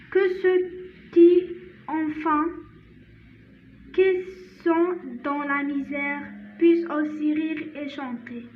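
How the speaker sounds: slow, measured French recitation with long pauses; poem read-aloud. Shown as a demonstration. Teacher reads a Christmas poem to learners, slow careful recitation. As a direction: read it out phrase by phrase, slowly.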